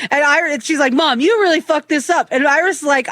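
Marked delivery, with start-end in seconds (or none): 0.9-2.3 higher-pitched imitation of an angry kid; mock accusation aimed at mom; retold complaint, voice raised in pitch; mad daughter. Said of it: "Oh, she was so mad".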